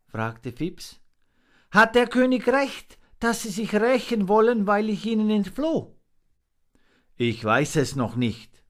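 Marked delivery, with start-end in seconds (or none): 1.7-6.0 very high, small creature voice; little monkey, anxious question. A narrator's reading.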